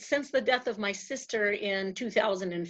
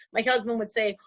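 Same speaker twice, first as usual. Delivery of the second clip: ordinary talk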